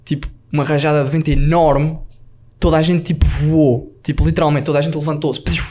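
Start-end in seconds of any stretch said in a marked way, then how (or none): 5.4-5.6 short whooshing noise for bodies lifting; imitated whoosh. Storyteller showing passengers thrown upward, whooshing sound effect. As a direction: mimic everyone flying up from their seats. Imitates people flying off seats.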